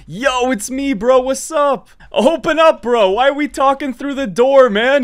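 calling through a door. Real, not acted.

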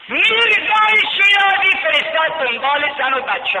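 high, loud preacher's cry; impassioned pulpit chant; full-force preaching. Acted. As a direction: lift the story into a sermon cry.

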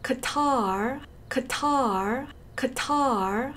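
QATAR as "kuh-TAR", long second syllable; weak first syllable, stretched TAR in QATAR; American Qatar. Shown as a demonstration. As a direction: drill QATAR with stress at the end, rising. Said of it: "제가 어떻게 발음할까?".

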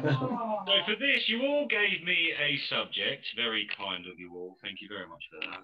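metallic robotic voice; booming metallic robot voice. Real, not acted. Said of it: "There's nothing wrong with my robot voice".

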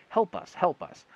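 very loud, very high screams; crying for help. A narrator's reading. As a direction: scream for rescue from under the dirt. Trapped men cry for help.

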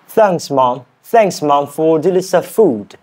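non-native go at a British accent; British accent attempt. Shown as a demonstration. Learner thanking Mom in a practice sentence, British accent attempt. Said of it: "that accent".

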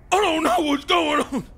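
high-pitched battle droid voice; B one. Acted. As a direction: do a confused droid impression. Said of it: "Can you do a B one?".

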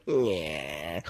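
long, low "yeah" noise; mock take-off noise. Plane passenger as it takes off, low drawn-out noise. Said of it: "my temptation as we take off is to go".

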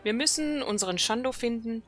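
lightly voiced night elf sentinel, urgent; dramatic quest reading. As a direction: read the quest text like a worried elf commander. Reads quest dialogue aloud.

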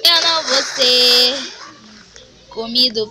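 yelling in real fear of being eaten; loud panicked protest. Real, not acted. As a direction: shout it out in a panic. Panicking over game danger. (grito de pânico)

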